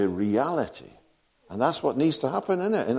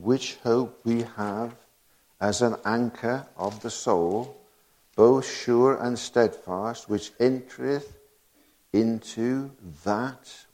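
slow, deliberate solemn reading; scripture reading; slower than usual. Acted. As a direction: weigh each phrase of the verse. Reading King James scripture.

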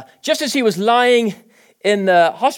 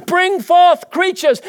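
commanding God; 11 semitones higher, 5 dB louder, slower than usual. Acted.

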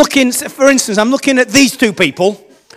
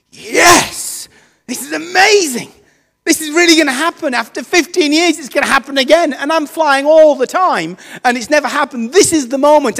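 higher, overjoyed retelling of the news; retold excitement; 5 semitones higher than usual. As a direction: relive the thrill of hearing it. Retold joy at upgrade news.

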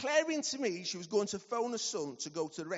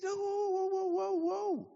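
startled whoa; 13 semitones higher, 3 dB louder than usual. Retold or imitated. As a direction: stop her short, taken aback. Stopping patient's talk of dying.

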